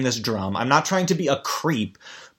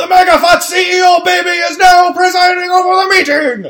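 put-on blared out loud and high with German accent; 10 dB louder than usual. Describing a cartoon character who announces for the boss: Magnus's loud German-accent voice. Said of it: "he doesn't regulate his voice".

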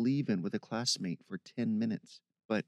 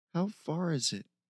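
quavering, tremulous, trembling, high-pitched voice; 6 semitones higher than usual. As narrator, read Stacy's question in a trembling voice. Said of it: "asked with a tremor in her voice".

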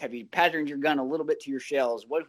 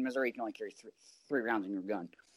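ordinary talk, nothing marked

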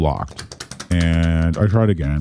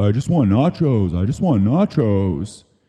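called out loudly, pitched up; 5 semitones higher than usual. Banging on a 7-eleven door for the cashier, retelling own shout. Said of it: "I shouted".

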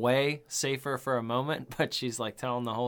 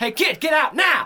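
shrill, very loud, high-pitched barked yelling; 11 dB louder than usual. Describing a scene where Tom Atkins breaks a window to reach a kid, imitating Tom Atkins yelling. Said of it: "he's just yelling at him".

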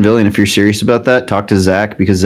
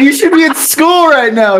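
very high, shrill screaming, acted out. Retelling a dad scolding someone for gaming instead of class: imitating a screaming dad. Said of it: "He's screaming".

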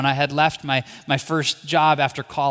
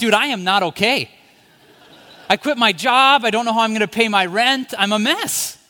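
mock, high-pitched, spilling-over total meltdown; 7 semitones higher, 4 dB louder than usual. Retelling answering a new doctor who asked how they were doing: retelling a total meltdown. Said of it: "I had a total meltdown".

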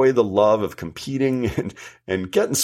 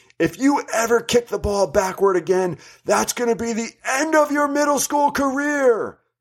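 acted, shrill, very high, loud scream; 12 semitones higher than usual. Retelling what a man screamed at a kid across the pitch, imitating someone screaming. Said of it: "And he screamed".

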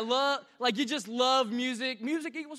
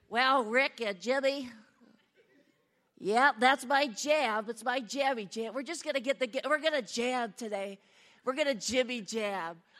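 dorky, nerdy, geeky put-on voice. Coaching someone how not to say the phrase, demonstrating a nerdy voice. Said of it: "don't say it all like nerdy".

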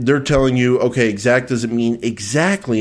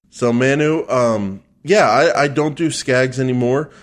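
plain

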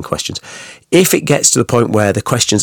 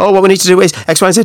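very high, far too fast, rushed rattle; 10 semitones higher, 4 dB louder than usual. Speaker demonstrating a presenter talking far too fast. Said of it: "you're talking like this".

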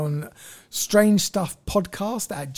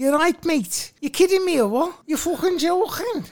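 high-pitched, fake put-on Liverpool Scouse accent; 11 semitones higher than usual. Showing what a Scouser sounds like: put-on Scouse accent. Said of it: "This is a Scouser".

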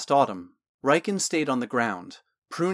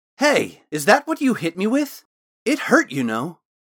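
loud, high-pitched, outright exclaiming; 6 semitones higher, 6 dB louder than usual. Someone reacts as the girl produces a miniature slinger from her pocket, exclaiming. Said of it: "Talon exclaimed".

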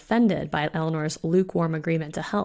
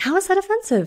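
very high-pitched, spluttering outburst; 14 semitones higher, 4 dB louder than usual. He protests after his vampire companion calls his remark offensive, spluttering. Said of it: "Bellamy spluttered".

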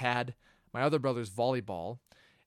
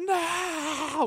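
very high, drawn-out anguished scream. Retelling a brother's reaction when the cd was snapped, retelling an anguished scream. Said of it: "screamed like he was like he got shot".

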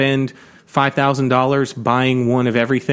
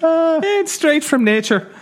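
high put-on Irish accent. Bantering about soda with co-hosts: slipping into an Irish accent. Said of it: "Why do you slip into that accent when you say straight from nature".

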